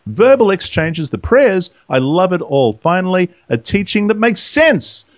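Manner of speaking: measured read-out of a message; reading aloud. Acted. Host reading a listener's comment, measured read-aloud. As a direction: read it deliberately, phrase by phrase.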